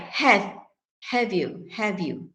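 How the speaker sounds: full HAVE, h not dropped; initial h sounded. Shown as a demonstration. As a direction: HAVE with a clear h at the start. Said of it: "the pronunciation is with initial h".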